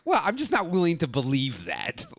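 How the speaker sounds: unvoiced, hushed whisper. Whispering to the women at the coffee shop, a hushed aside. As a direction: breathe it as a sly whispered aside. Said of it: "And I'm like".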